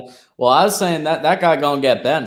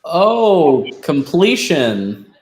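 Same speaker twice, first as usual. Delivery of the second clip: raised, louder excited "oh"; excited reaction; 3 semitones higher, 4 dB louder, much slower than usual. Real, not acted. Watching the game, excited at a completion.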